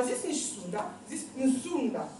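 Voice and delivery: Zunda drawn out slowly; slow demo. Shown as a demonstration. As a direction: stretch si c'est Zunda out.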